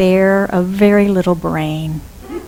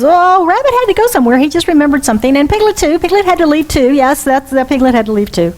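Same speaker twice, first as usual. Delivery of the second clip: flustered Pooh; 5 semitones higher, faster than usual. Acted. Pooh covering for missing friends.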